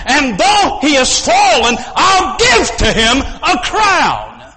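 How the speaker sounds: full-throated sermon climax; preaching at full force. Acted. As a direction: proclaim it to the whole hall.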